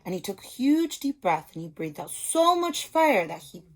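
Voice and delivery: put-on reading a picture book to young children; storybook reading. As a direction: tell it like a teacher at story time. Story narration.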